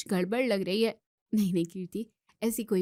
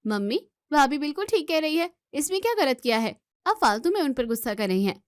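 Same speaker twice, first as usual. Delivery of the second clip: heated defence; 4 semitones higher than usual. Acted. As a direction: stand up for her sister-in-law firmly. Kirti defends sister-in-law to mother.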